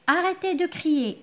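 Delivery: high, loud angry command; teacher demos an angry command; angry shout. Shown as a demonstration. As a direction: snap at the noisy children. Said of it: "Je suis très en colère".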